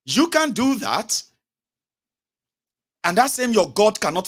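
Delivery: loud, high, impassioned; heated rant. Real, not acted. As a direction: preach it with rising anger. Heated rant about God.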